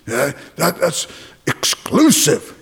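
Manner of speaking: slow, drawn-out mock complaint; a hint of a whiny skeptic; mocking objector voice. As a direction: mimic a sniffy critic dragging out exclusive. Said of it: "people say".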